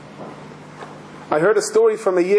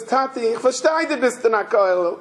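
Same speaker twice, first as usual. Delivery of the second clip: raised voice of a retold child; pleading little boy; 4 semitones higher than usual. Boy grabs his father's hands, pleading in imitation.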